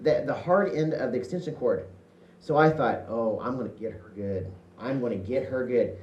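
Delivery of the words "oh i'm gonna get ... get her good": low, quiet scheming mutter; a kid plotting revenge on his sister. Retold or imitated. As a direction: plot revenge under your breath.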